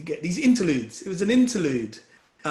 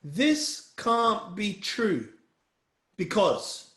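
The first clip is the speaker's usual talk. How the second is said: slow model sentence; 3 semitones higher, much slower than usual. Shown as a demonstration.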